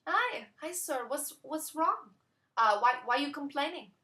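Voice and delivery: high, sing-song fussy owner; owner's put-on voice. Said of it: "one of those women who talk like this".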